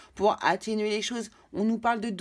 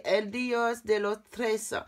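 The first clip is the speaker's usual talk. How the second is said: slow, careful Spanish accent on El Dios de los Tres; Spanish accent attempt; slower than usual. Real, not acted. Tarot reader naming a Spanish deck in a Spanish accent. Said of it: "excusez-moi pour mon accent espagnol".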